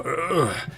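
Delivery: acted groan, rising in pitch; shocked groan. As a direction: groan as if jolted by something. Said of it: "You just kinda hear him go".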